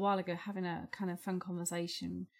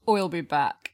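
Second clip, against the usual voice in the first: Schwarzenegger impression; 7 dB louder than usual.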